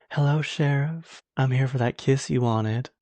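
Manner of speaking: a hint of a slow, sultry killer line; lightly voiced femme fatale. Character teasing the sheriff before shooting him, lightly voiced and slow. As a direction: purr it like a villain who kills with a kiss.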